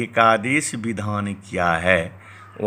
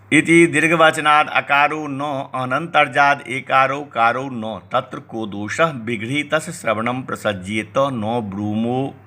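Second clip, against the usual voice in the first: steady scholarly chant of the commentary; Sanskrit text recitation; 3 semitones higher than usual. Acted. Teacher reciting the Sanskrit text to students, in a measured recital. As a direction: read the old text aloud in a measured recital.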